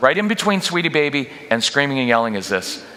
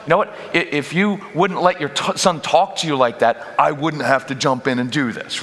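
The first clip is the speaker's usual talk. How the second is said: resentful; 2 semitones higher than usual. Retold or imitated. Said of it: "I get resentful".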